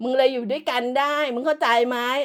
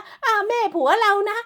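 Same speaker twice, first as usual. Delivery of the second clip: high, slow, sugary mock voice; mocking sweet imitation; 7 semitones higher than usual. Vlogger mocking the wife talking about her mother-in-law, high slow sugary voice. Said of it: "มันพูดถึงแม่ไอ้เป๋".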